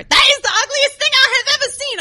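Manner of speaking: high, baffled mock voice; dumb classmate voice. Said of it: "And this stupid senior".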